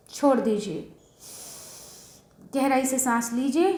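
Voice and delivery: calm breathing instructions with long pauses; settled, slightly softened meditation-guide voice; guided meditation. Real, not acted. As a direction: guide them gently into meditation, pausing between steps.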